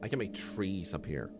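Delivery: showman magician patter; theatrical magician. Pretend. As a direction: present it like a stage magician. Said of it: "I wanna show you a magic trick".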